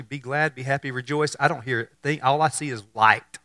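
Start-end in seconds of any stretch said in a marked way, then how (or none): 0.0-1.4 baffled echo. Retold or imitated. Mary echoing the angel's words, soft and puzzled. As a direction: mutter it back confused. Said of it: "imagine her response initially".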